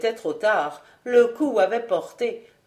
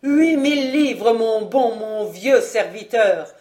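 exclaiming; 2 semitones higher, 6 dB louder than usual. A narrator's reading. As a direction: cry out the offer, pitched up. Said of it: "s'écria Vaunois". (en s'écriant, voix forte et aiguë)

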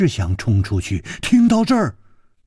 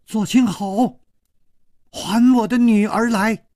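high, piercing cry of an angry mother; a mother shrieking for her daughter from outside; shrill loud woman; 10 semitones higher than usual. Acted. Mother demanding her daughter back, shrill high cry. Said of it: "又尖又响亮的女子的声音".

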